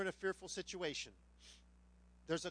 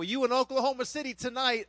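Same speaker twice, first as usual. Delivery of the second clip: loud, higher-pitched southern drawl; 5 semitones higher, 10 dB louder than usual. Retold or imitated. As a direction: mimic a loud Southern challenger. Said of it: "he said it with a southern drawl too".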